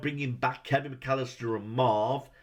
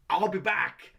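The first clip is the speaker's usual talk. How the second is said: mock Marv threat; 5 semitones higher than usual. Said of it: "he looks at Kevin and goes".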